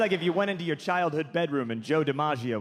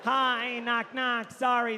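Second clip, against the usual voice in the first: higher, apologetic little greeting; mock timid hello at the door; meek entrance; 5 semitones higher, slower than usual. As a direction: shrink yourself as you come in, pitched up. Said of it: "That's how I walk into rooms".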